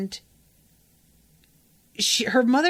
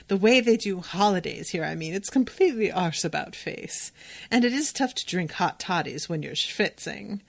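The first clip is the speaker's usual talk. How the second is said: a light upper-class British accent, lightly voiced; sniffy British lady, only lightly put on. The speaker posing as a snobby British friend, light British accent. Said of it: "as a British woman".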